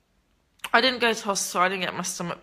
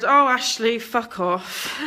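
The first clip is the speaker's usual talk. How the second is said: dismissive brush-off; 3 semitones higher, slower than usual. Real, not acted. Dismissing a viewer named Ashley.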